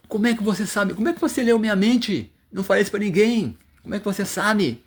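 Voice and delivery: a teacher voicing a saint in rapture; ecstatic amazement. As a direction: ask it overwhelmed with wonder. Ecstatic Chaitanya questions Rupa.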